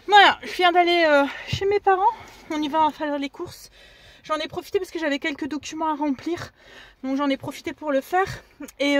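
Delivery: breathless after running, quiet; winded, catching her breath. Real, not acted. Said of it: "Je suis essoufflée parce que je viens de courir".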